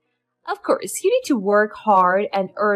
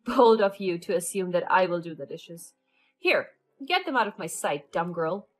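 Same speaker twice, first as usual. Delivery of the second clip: a cold, scornful mother-in-law, a bit louder; contemptuous; 5 dB louder than usual. Acted. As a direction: sneer it down at the daughter-in-law. Mother-in-law drops the act.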